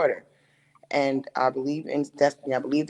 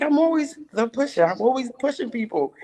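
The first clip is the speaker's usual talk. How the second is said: higher, emphatic self-quote; retold own line; 8 semitones higher than usual. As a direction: say it like a proud declaration. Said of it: "I was like".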